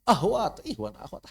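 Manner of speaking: "ihwan, ahwat" with plain h. Retold or imitated. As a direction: imitate the misreading "ahwat", no rasped kh. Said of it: "kadang-kadang dibaca ihwan".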